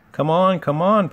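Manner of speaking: high, loud repeated urging; puffing engine urging. A narrator's reading. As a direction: spur the train along with effort. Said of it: "puffed Gordon to the coaches".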